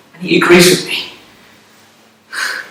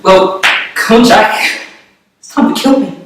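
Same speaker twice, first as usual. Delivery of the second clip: higher, louder, egging him on; insistent urging; 3 semitones higher, 5 dB louder than usual. Acted. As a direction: press your old friend to go through with it. Urges Jack to kill him.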